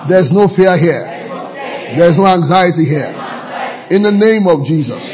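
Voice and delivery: firm short phrases with pauses for repetition; congregational declaration. Real, not acted. Preacher leading the congregation in confession of faith, firm declaration.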